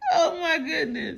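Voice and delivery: high, loud shrieking laughter; giggling. Real, not acted. Tickling chaos, everyone laughing.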